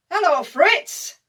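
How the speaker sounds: loud, high, drawn-out hail; shouting back. Acted. Johnny answering the German line, drawn-out shout. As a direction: holler the greeting back across no man's land. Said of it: "And Johnny shouts back".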